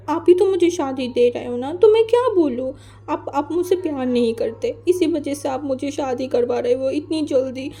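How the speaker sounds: whiny, hurt complaint, voice jumping high on तो मैं क्या बोलूँ; sulking child scolding his mother; tearful sulk. Acted. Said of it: "वो रोने लगा". (रूठा हुआ, रुआँसा बच्चा)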